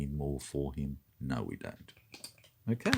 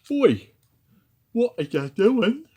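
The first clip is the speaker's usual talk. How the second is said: high, loud indignant yell; mock soldier shout; 13 dB louder than usual. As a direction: bark it like an outraged soldier catching the enemy. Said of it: "the Russians are gonna go".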